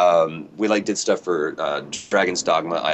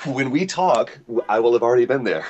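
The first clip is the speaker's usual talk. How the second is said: playful time-traveller; 6 semitones higher than usual. Pretend. Time-travel joke, DeLorean.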